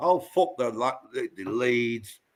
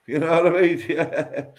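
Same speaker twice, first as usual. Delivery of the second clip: laughing; 4 semitones higher than usual. Real, not acted. Laughing at story.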